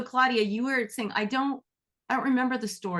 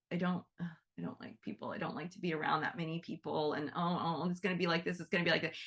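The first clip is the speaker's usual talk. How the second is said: hushed, half-whispered worry; anxious muttering; 6 dB quieter, faster than usual. Retold or imitated. Host dreading a crowd, whispering her worries to herself. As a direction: mumble the dread under your breath.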